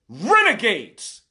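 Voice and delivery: Renegades. drawn out slowly, each syllable hit; slow emphatic repeat. Real, not acted. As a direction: spit out Renegades. slowly and deliberately. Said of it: "and I'm enraged".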